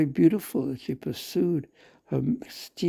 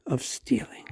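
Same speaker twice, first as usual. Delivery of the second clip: whispered; 8 semitones higher than usual. A narrator's reading. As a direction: breathe the words out. Quoting mother's fond thought.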